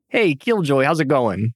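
a light Southern drawl on the greeting; Southern accent. Acted. Player greets trucker Killjoy in a light Southern accent. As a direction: greet him like a Southern local. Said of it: "He was real deep in Southern".

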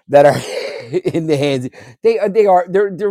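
a real chuckle into the words; laughing. Real, not acted. Guest on seven hundred million guns, chuckling. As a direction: laugh briefly, then talk through it. Speaker laughs over the gun count.

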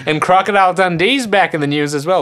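entertainment news read. Pretend. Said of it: "it would be like".

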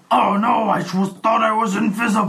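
high, loud, wailing comic cry; hammed-up dismayed enemy. Game master's invisible enemy hit by javelin, hammed-up wail. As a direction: shout it in a high put-on voice of dismay. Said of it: "and he goes".

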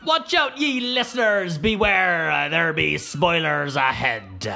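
put-on high theatrical old-timey proclamation, slowing at the end; epic pirate-like announcer voice. Shown as a demonstration. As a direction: proclaim it like a hammy town crier. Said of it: "in your epic voice".

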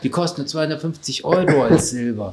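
hammed-up wow, overexcited buyer; mock excitement. Mocking excited onlookers at parade.

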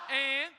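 And. shouted out loud on its own. Acted. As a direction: bark the single word And. Preacher repeats stressed word.

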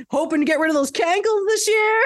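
lightly voiced catty party guest, high. Host playing a rude guest teasing Marty, catty. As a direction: needle him sweetly.

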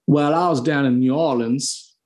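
a light, slowed American Southern accent attempt. Shown as a demonstration. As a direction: try out a gentle Southern drawl for a guest who asked. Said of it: "I can try a Southern one".

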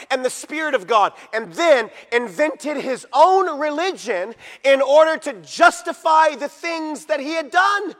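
emphatic, punched key words, rising in force; full-force preaching. Real, not acted. Preacher denouncing a false prophet to the congregation, forceful. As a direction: preach it hard, landing each word of the verdict.

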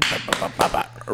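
rapid mouthed knocking noise; imitated door banging. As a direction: mimic pounding on a door with "bah". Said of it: "start banging on the door".

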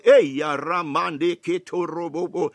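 fervent glossolalia in the middle of preaching; speaking in tongues. Real, not acted. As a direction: break into tongues with fervour. Praying in tongues mid-sermon.

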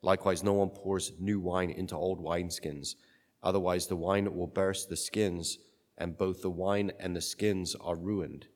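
solemn Gospel reading; cathedral echo. Acted. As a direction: read it like a liturgy.

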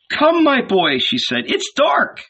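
mother calling her son. A narrator's reading. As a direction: summon your boy from a little way off. Mother calls her son home.

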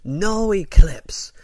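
high, slow, drawn-out chant; Asuka impression. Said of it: "she'd say, like".

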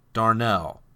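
reading the hate letter in a lightly mocking voice; a hint of a whiny troll. Reads the troll's letter aloud.

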